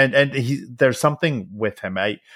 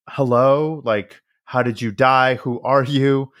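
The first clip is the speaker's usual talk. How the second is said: calling out; 3 semitones higher, 3 dB louder than usual. Retold or imitated. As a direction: tentatively question an unseen spirit. Retelling calling out to ghosts.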